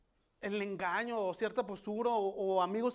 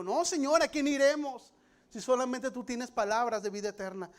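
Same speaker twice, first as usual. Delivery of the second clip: louder, higher proclaiming of Peter's answer; preached declaration; 4 semitones higher, 6 dB louder than usual. Retold or imitated. Peter answering Jesus, proclaimed loud and high. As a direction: cry it out as a bold confession.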